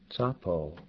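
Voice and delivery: Tsapo opening on the ts of "grits"; initial TS sound. Shown as a demonstration. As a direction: start Tsapo with ts plus ah. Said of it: "Tsa is the ts at the end of the word grits".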